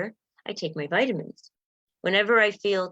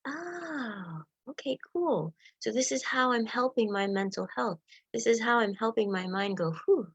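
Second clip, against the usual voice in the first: relieved inner voice; 2 semitones higher, 4 dB quieter than usual. Retold or imitated. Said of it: "It helps you to be able to go".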